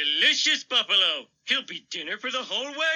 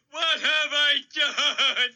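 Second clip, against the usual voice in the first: wailing; 4 semitones higher, much slower than usual. Acted. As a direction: drag it out in a wailing cry. Despair over wiped-out buffalo.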